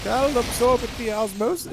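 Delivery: high goofy cartoon voice; Legendary Frog impression. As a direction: quote it like a silly Flash cartoon. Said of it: "Legendary Frog just made these really weird shorts where it's like".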